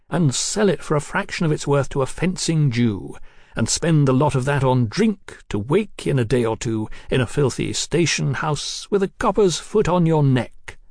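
lightly voiced cocky young lord; a hint of a swaggering young marquis; young radical aristocrat. Marquis voice in story.

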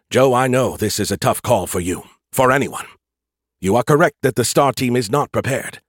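urgent AI voice. Acted. AI character Skippy speaking.

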